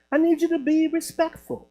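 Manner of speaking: politely firm, imitating an unruffled man; real calm. Calm man asks angry caller for respect, real calm. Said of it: "He was just so calm".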